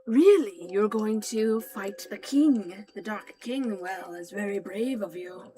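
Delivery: a lightly voiced impressed old merchant; shopkeeper character. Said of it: "I'm voicing these characters".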